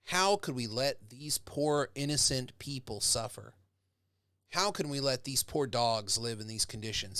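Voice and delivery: pitying appeal. Shown as a demonstration. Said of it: "Pity's like".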